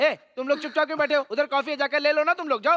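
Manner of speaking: shouting. Someone urges the people sitting silently to go get coffee: shouting. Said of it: "इतना चिल्ला क्यों रहा है तू?".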